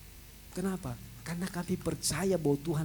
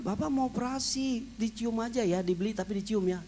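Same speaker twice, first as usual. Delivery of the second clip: higher, louder coaxing doctor; doctor soothing; 9 semitones higher, 7 dB louder than usual. Retold or imitated. Doctor telling the patient he may only smell the coffee, coaxing. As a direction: coax him like a patient doctor.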